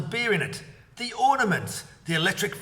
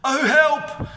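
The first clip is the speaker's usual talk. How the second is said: high, loud scream for help; 11 semitones higher, 8 dB louder than usual. A narrator's reading. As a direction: shriek out in fear. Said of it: "screamed Missus Twit".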